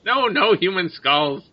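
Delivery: high, slow creature voice; bird creature. Acted. Bird leader answers an overheard aside, high slow creature voice. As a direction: deny it slowly in a high bird voice.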